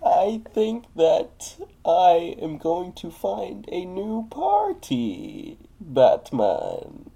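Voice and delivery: slow, drawn-out mock Bane. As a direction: drag the words like a lazy villain. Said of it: "If I do Bane".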